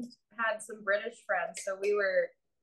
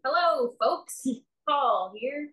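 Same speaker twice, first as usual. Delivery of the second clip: bright, higher and louder greeting; like a friendly rep answering the phone; customer service voice; 4 semitones higher, 3 dB louder, slower than usual. Pretend. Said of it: "customer service voice".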